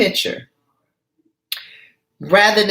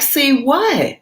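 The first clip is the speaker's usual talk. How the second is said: voicing Gina; 7 semitones higher than usual. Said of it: "So Gina's like".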